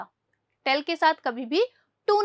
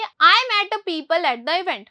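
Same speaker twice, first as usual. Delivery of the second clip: slow reading; much slower than usual. Shown as a demonstration. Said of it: "teacher reads example sentence slowly".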